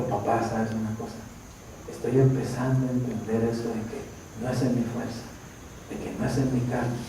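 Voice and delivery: hushed, earnest admission; humble confiding. Retold or imitated. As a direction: confide it softly to a father. Retelling son's humble confession.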